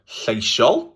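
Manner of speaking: "lleisiol" with an "ay" vowel, LLAY-shol; I morphed into A. Shown as a demonstration. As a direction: stretch "lleisiol" out, first syllable as "ay". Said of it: "can often morph into A".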